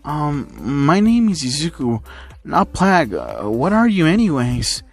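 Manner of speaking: slow, hesitant and mildly puzzled; confused. Acted. Izuku correcting a strange red blob, mildly confused. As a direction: drag it out in mild confusion. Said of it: "Izuku, confused".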